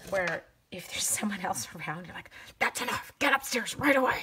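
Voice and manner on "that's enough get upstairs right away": creepy, high, harsh stage whisper. Retelling scolding the kids while others are around: imitating own psycho mom half-whisper. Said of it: "the psycho mom whisper".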